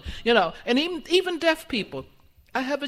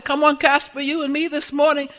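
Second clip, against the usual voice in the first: upbeat pep talk; 4 semitones higher, 11 dB louder than usual. Retold or imitated. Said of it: "I say".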